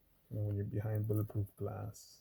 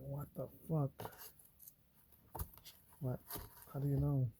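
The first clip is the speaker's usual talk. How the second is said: baffled disbelief; 4 semitones higher, 3 dB quieter than usual. Retold or imitated. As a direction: stretch it out, baffled. His own baffled reaction.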